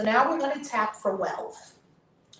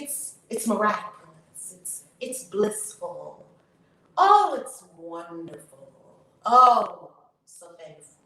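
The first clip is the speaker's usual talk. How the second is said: tapping affirmation lead; much slower than usual. Acted. Tapping coach leading viewers through affirmations, slow chanting lead.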